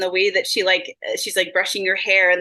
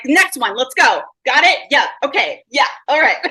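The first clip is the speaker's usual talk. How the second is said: eager charades player; 3 semitones higher, 5 dB louder than usual. Retold or imitated. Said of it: "she is great at playing charades".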